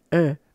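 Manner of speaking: "er" said with the tongue against the palate; the ü sound. Shown as a demonstration. Teacher shows the Mapudungun ü sound with the tongue on the palate. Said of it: "usted hace el sonido".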